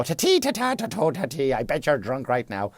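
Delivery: high singsong gibberish taunt; hammed-up diddly-dee; mock Irish jig.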